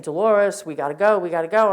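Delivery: calling up loudly, urgent. Retold or imitated. A man at the bottom of the stairs, calling up loudly to Dolores. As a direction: yell it up the stairwell to get her moving. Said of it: "he's saying".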